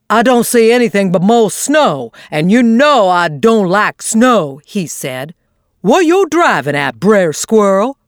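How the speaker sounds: lightly voiced drawling old possum; a hint of a doubtful old possum; friendly old possum, puzzled; Unc' Billy Possum.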